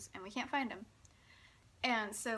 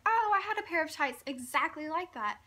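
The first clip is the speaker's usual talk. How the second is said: louder, higher delighted exclamation; excited; 5 semitones higher, 7 dB louder than usual. Retold or imitated. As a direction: act out her delighted recognition. Retold delighted remark about her tights.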